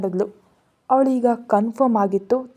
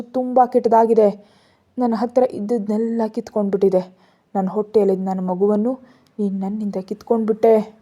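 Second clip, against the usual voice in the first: crying; 3 dB louder than usual. Acted. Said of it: "ಕೃತಿ ಅಳ್ತಾ ಅಂದ್ಲು".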